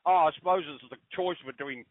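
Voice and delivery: imitating a grumbling dad, mildly put out; a touch of mock exasperation; mildly annoyed father. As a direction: retell Dad's mild annoyance at the choice. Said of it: "my father was annoyed".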